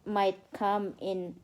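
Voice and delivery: slow, careful storybook reading for a little one; reading to a child. Acted. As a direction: read it out like a bedtime story. Mother reads storybook to child.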